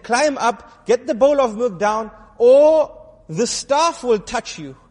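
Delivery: stern threat. Acted. Knight threatens with staff.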